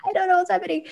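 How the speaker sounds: anxious asking. Retold or imitated. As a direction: ask in a high anxious voice. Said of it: "I was literally like".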